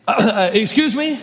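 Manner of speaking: slow, puzzled half-laugh; incredulous Gideon. Acted. Gideon baffled at God's order, slow and puzzled. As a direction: ask it like you misheard.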